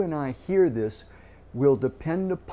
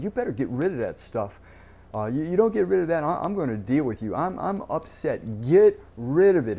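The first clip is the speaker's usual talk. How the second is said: stern threatening God, louder on the last words; angry God; 3 dB louder than usual. Retold or imitated. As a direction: play an irritated God laying down a threat. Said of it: "God's ticked, he's angry".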